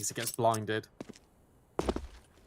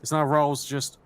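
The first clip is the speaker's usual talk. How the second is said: excited caster; 3 semitones higher, 3 dB louder than usual. Real, not acted. Calling a key kill.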